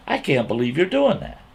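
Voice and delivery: high-pitched incredulous reproach; scolding in disbelief; retold disbelief. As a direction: reenact being appalled at a friend. Retold shocked reproach, said once more.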